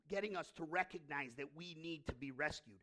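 normal talking voice

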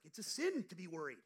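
loud, firm rebuke of a worried friend; hard loud verdict; loud scolding quote. Retold or imitated. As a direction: say it like a stern church elder laying down the law. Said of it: "he's like".

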